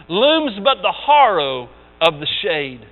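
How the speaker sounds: grave recital of Invictus; poem recital. Acted. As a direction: read it like a solemn recitation. Reading the poem Invictus aloud.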